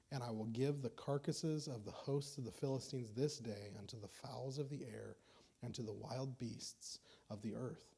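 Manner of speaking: measured, solemn reading of the verses; scripture reading. Acted. Preacher reading David's words to the congregation, solemn. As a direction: read the old words with weight.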